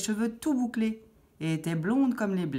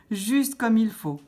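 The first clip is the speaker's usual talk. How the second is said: slow, higher, louder delight; pleased exclamation; 5 semitones higher, 5 dB louder, slower than usual. A narrator's reading. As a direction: savour it, drawn out and louder. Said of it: "s'exclama-t-elle". (exclamation ravie, lente et appuyée)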